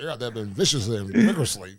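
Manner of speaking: imitating a British accent, crisp enunciation; a hint of a posh British accent. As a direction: put on a light British accent. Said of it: "say it with a British accent".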